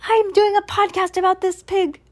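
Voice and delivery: high, pretend-proud proclamation; hammed-up excited announcement. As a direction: announce it as if to the whole world, playfully. Imagined announcement about a genius pig.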